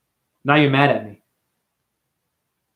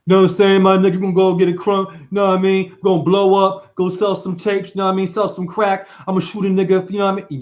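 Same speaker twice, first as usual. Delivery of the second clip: mock gangster voice; 3 semitones higher than usual. Mock gangster persona rant.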